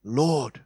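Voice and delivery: "Lord" held, slow and weighty; stress on Lord. Shown as a demonstration. Preacher dwells on the word "Lord". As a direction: land hard on "Lord". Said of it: "I'll just emphasis on the word".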